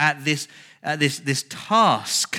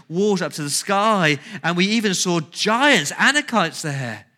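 exaggerated alarm; 3 semitones higher, 5 dB louder than usual. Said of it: "Love that exaggeration".

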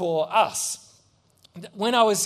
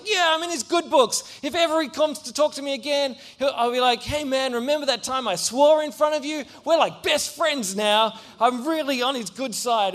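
higher, pleased and eager self-talk; smug excited kid; 5 semitones higher than usual. Retold or imitated. Boy thinks he is now the bully's friend, high and chuffed. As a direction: gloat to yourself, chuffed. Boy gloating in his head.

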